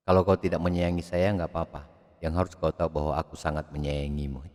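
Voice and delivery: a soft tender confession; hushed romantic inflection. Shown as a demonstration. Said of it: "Gaya-gaya infleksi semua". (bisikan mesra yang lembut)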